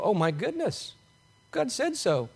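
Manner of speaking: quiet, wondering realisation, no alarm; a hushed, faith-filled oh my goodness; softly awed acceptance. Retold or imitated. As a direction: let the awe land gently. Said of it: "You should go".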